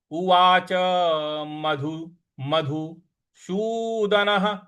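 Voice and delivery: slow, measured chanting of the half-line; slow recitation. Shown as a demonstration. Teacher recites the line word by word for practice. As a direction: recite each word slowly and clearly. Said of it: "विसर्ग ... उच्चारण हमें ह ले आना है".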